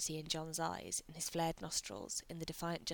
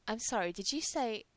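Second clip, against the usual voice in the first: strangled; 5 semitones higher, 6 dB louder than usual. A narrator's reading. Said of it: "John sounds like he's strangling".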